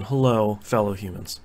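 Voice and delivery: low, deadpan alien greeting. Acted. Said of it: "I'm certainly not an alien".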